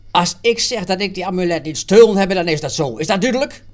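loud, high, fast furious insistence; angry. Acted. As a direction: shout him down, fast and furious. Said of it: "Stoef wordt kwaad". (kwaad en luid schreeuwend)

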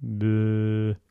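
long, droning sloth noise; a drawn-out, lifeless bleh; dull sloth "bleh". Pretend. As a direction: drone like a sloth just sitting. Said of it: "It would just sit there".

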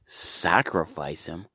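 slow stunned start rising to a high, loud yell; outraged disbelief. Acted. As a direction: build from disbelief to a shrieking outburst. Abraham refuses, outraged.

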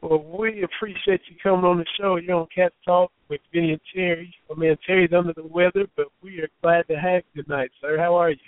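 mild hoarseness, raspy throat; hoarse voice. Real, not acted. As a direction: talk through a frog in the throat. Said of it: "you sound a little, uh, hoarse in the throat".

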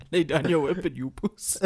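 put-on Brakpan South African accent. Joking about the film, Brakpan South African accent. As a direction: mimic someone from Brakpan. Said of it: "That's not somebody from Brakpan saying this".

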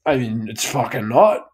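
lightly mocked gruff Scottish thanks, slow in places; Scottish acceptance speech. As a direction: grumble through the thanks like a Scotsman. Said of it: "a Scotsman gets up on stage ... he just goes".

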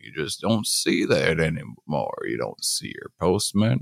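lightly voiced nostalgic old man; a hint of an old-timer reminiscing. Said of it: "should I get into, like, an old man voice".

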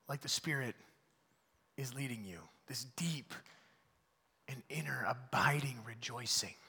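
hushed, intimate whisper; reverent whisper. Real, not acted. Pastor to congregation about inner joy, whispering. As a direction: breathe it like a secret.

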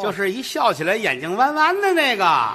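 mock old man ordering takeout by phone; bossy old man ordering. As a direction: bark the order like a fussy old dad. Father phoning for takeout.

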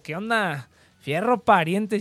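slow, drawn-out northern Mexican greeting; a hint of northern Mexican accent, drawled slowly; norteño accent. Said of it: "Sí se me pegaba el acento".

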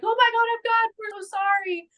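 high-pitched frightened squeal of apology; mock panicked apology. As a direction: imitate scared boys begging pardon. Boys panicking at a gun.

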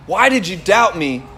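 understated, caring reproach; gentle question. Retold or imitated. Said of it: "it was more like a question of".

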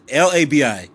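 slowly spells out the name; slow spelling. Shown as a demonstration. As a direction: sound out each letter slowly. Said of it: "spelling the name out slowly".

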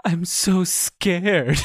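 slow, whiny mock fear; mock scared. Gamer mocking the pilot's fake fear, slow and whiny. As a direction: drag it out like a hammed-up damsel. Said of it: "she was like".

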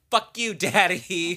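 slow, crying fake sob with a laugh; mock tearful. Daughter cursing her father, mock sobbing slowly. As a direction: ham up a weepy daughter's curse. Veronica's angry tearful line retold.

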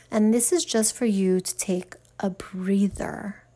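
breathy hushed aside; whisper. Shown as a demonstration. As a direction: whisper it like a secret.

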